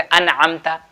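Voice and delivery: अनअमता with a clear N before the ayn; अनअमता, noon sounded distinctly without ghunna; izhar pronunciation. Shown as a demonstration. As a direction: keep the N of अनअमता out of the nose, no hum. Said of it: "नाक से आवाज़ बाहर ही रखना".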